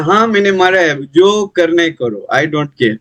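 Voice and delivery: like a rich man who fears no punishment; defiant attitude. Retold or imitated. Merchant brushing off the king's court, defiant. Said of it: "That attitude he came".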